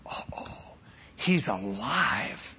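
breathless whispered uh-oh, then slow hushed realization; the moment the truth sinks in, barely voiced; stunned whisper. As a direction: whisper it in shock, slowly. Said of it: "Until he heard the words".

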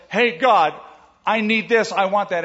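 a touch of flippant neediness; casual demanding prayer. Pretend. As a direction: toss off a careless wish list to God. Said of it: "It's not just".

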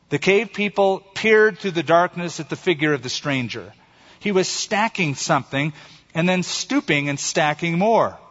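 measured storytelling with weighted pauses; story narration. A narrator's reading. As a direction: read it like a solemn fable. Reads a short story aloud.

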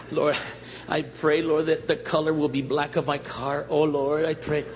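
mock a selfish prayer; mock greedy prayer. Mocking materialistic prayer.

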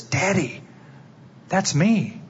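put-on a young son pipes up innocently; little boy's voice. Son telling his father in the crowd, lightly voiced little boy.

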